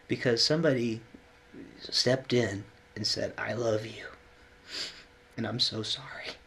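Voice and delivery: real emotion slowing the words; halting, moved, pausing to hold it together; getting emotional. Real, not acted. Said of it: "I'm getting a little emotional".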